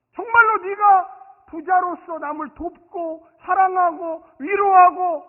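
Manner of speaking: loud, high, slow pulpit proclamation; drawn-out, high sermon exhortation; full-force preaching. Acted. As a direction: preach each phrase out forcefully.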